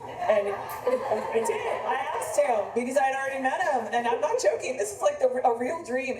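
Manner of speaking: talking through real laughter, pitch up; can't quite keep a straight face; giggly disbelief at her own story; laughing. Real, not acted. Amused telling of strange dream.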